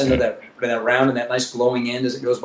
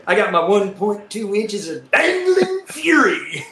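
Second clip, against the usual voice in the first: laughing joke; 5 semitones higher, slower than usual. Real, not acted. Self-mocking joke while laughing.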